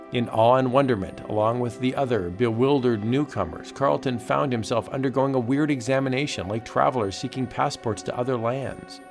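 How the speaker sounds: dramatic pulp narration; comic book narrator. A narrator's reading. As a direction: narrate like an old radio thriller. Dramatic narration of horror tale.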